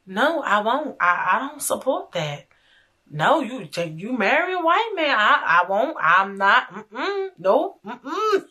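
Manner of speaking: lightly imitated Southern grandma, refusing; a hint of sweet Southern accent, retold refusal. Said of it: "she got the sweetest Southern accent voice".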